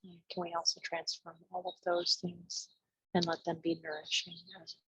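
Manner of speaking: hushed, spacious meditation guidance; guided meditation. Real, not acted. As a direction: ease them inward, pausing between short phrases. Leads a meditation.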